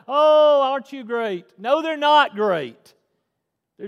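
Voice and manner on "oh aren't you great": loud, high mock gushing over the kids; gushing praise. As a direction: gush with an exaggerated "Oh". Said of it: "And we're just like".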